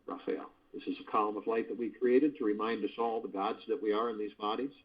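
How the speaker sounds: calm, steady meditation narration; guided meditation. Acted. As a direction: guide listeners through the healing light.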